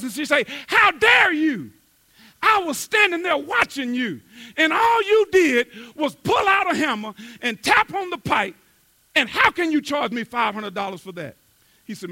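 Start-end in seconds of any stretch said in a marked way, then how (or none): 0.7-11.4 loud, high indignant complaint; angry caller. Acted. Angry woman yelling at the plumber down the phone. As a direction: berate the plumber, voice raised. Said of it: "with anger in her voice".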